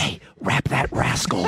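low, slow drawn-out delivery; mock slogan read. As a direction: draw it out low, like a silly slogan. Reads out a slogan, hammed up.

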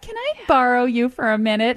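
lightly voiced corporate lady; sweet office lady, lightly put on; lady's voice. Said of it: "I'm saying it in, like, a lady's voice".

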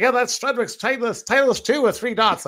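lightly voiced annoying tattler; a hint of the eager teammate turning him in; imitating Tyson Nash. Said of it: "that's how he talked".

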